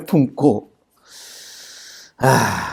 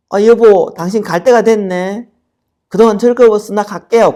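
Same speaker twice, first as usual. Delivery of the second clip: 가볍게 떠나는 아내; 7 semitones higher, 3 dB louder than usual. Acted. 아내들이 떠나며 하는 말.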